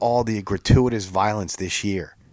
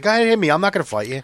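mock provocation; 7 semitones higher, much faster than usual. T O provoking, retold quarrel.

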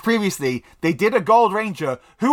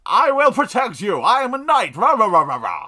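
brave knight, higher and louder; hammed-up knight bellowing his oath; mock heroic knight; 4 semitones higher, 4 dB louder than usual. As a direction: puff up like a gallant knight.

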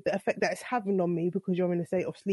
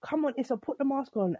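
higher, pleading nudge; urging; 6 semitones higher than usual. Retold or imitated. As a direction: coax him to put it on. Waking husband to wear mask.

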